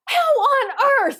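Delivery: high, slowed, laughing disbelief; can't believe she was picked, laughing; stunned disbelief. Retold or imitated.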